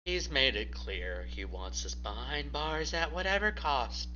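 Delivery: a grim Michael weighing the threat. Acted. Michael's voiced lines.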